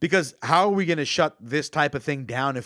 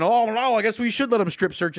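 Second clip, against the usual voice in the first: mock dismay; 7 semitones higher than usual. Acting a frightened, compliant public.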